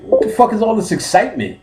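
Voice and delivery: high-pitched mock indignation; alarmed objection. Patient challenging an eager doctor, high alarmed voice.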